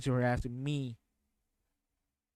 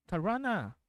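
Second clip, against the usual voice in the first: higher-pitched imitation of an odd accent, "Tarana" leaning on RA; weird accent; 4 semitones higher than usual. Streamer retrying the character's line, weird non-native accent. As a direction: mimic the off accent on "Tarana", English r. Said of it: "this weird accent that she does".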